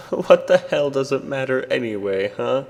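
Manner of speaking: high, loud, scornful challenge; defiant taunt. Acted. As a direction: throw it in the creature's face.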